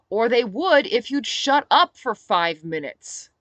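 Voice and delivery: angry retort. Acted. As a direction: lose patience and tell her off. Narrator snaps back at Sophie.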